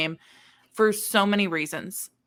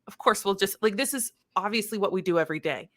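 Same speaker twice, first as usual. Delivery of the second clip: quick, sarcastic aside; mildly sarcastic, fast and offhand; 3 dB quieter, faster than usual. Retold or imitated. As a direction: toss it off like it's routine. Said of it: "very sarcastic".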